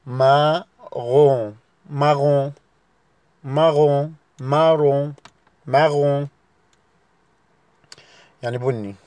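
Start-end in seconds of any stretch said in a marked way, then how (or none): 0.0-6.3 "مارون" slow at first, with a uvular r and a nasal ending; "مارون" بنطق فرنسي; French marron. Shown as a demonstration. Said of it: "اللون رقم سبعة".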